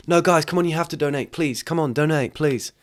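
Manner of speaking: high, whiny-style begging act; mock pleading. Streamer begging viewers on TikTok Live, mock pleading. Acting a livestream beggar pleading.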